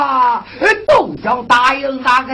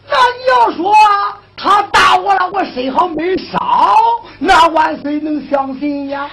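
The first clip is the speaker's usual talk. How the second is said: anxious protest; 5 semitones higher than usual. Acted.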